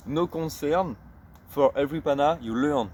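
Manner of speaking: English phrase read out with a French accent. Real, not acted. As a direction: show off your English, French accent intact. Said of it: "Vous avez vu mon accent anglais". (anglais lu avec un accent français)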